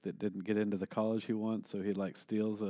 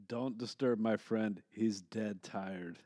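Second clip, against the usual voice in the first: slow, drawn-out deadpan punchline; Arnold one-liner; 3 dB quieter, slower than usual. Retold or imitated. Quoting the hero to the stewardess, slow deadpan one-liner. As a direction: lightly imitate a slow action-hero quip. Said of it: "he tells the, the stewardess".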